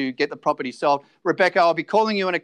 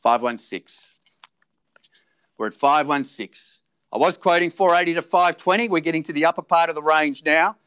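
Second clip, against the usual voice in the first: auctioneer calling. Acted.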